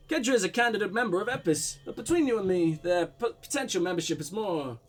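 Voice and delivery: put-on light blend of Russian and German accents. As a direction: voice the man with a slightly muddled Russian-German accent. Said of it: "weird blend of Russian and German".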